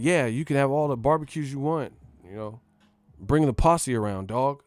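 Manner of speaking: trying to sound down. Retold or imitated. Realtor trying to impress a couple, mock try-hard voice. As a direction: imitate a realtor overdoing the cool talk. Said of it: "kept trying to sound down".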